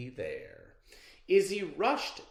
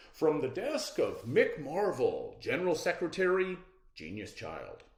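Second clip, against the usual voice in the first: formal letter voice; 5 semitones higher, 4 dB louder than usual. Acted. Letter read in character voice.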